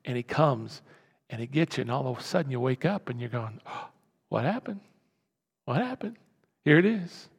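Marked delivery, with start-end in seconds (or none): 3.7-6.2 waking bewildered, hushed and high-pitched; small, high, confused voice; startled waking. Acted. Person waking up caught by the enemy, bewildered.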